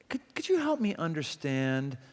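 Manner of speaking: soft, humble could you help me understand; gentle tone. Shown as a demonstration. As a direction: ask it quietly and kindly. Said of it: "here's the same words, different tone".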